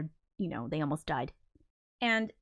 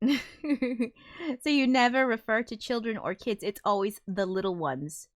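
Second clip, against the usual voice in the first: slow, lightly put-on voice reading out a viewer comment; drawn out like a prim parent; reading a comment aloud; 3 semitones higher than usual. Reading out a viewer's comment, in a lightly prim, slow voice. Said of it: "Headfirst Only says".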